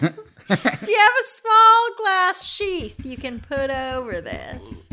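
slowly, with a laugh, each word spelled out; slow, deliberate repeat. Shown as a demonstration. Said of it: "Can you ask that again?".

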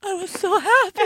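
high, laughing with joy; giddy laugh through the words; laughing happily. Real, not acted. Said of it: "She's almost in tears".

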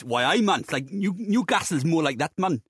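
put-on a rough stab at a Geordie accent. Panelist attempts Geordie on the host's request, terrible Geordie accent. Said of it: "Can you do a Geordie accent?".

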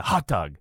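"hot dog" with a local, non-broadcast vowel; funky regional vowel. Shown as a demonstration. Showing the one word he says oddly, local "hot dog". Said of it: "is the word hot dog".

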